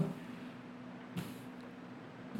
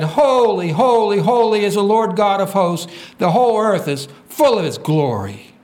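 louder, higher proclamation of worship; crying out; 4 semitones higher, 3 dB louder than usual. Acted. Seraphim crying to one another in worship, crying out. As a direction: cry it out in praise. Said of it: "And he cried unto another and said".

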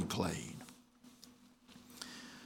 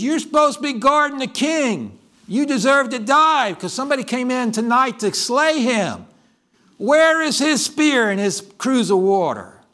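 high, loud scolding of a failed guard; rebuke; 8 semitones higher, 4 dB louder than usual. Acted. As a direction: call him to account, raised. David rebukes Abner's failed watch.

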